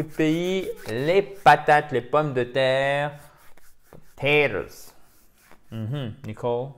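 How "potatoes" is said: slow "Potatoes" with a flapped t; slow model word. Shown as a demonstration. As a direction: say "Potatoes" slowly, t like a d. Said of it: "c'est a dose".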